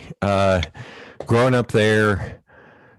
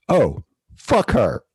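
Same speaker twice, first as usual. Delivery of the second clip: sweet Southern lady; 4 semitones higher, slower than usual. Retold or imitated. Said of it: "I'm not kidding".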